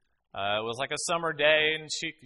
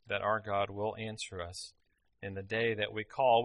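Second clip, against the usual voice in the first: solemn read of a psalm. Acted. Preacher reading Psalm twenty aloud, solemn. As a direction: read it as a blessing.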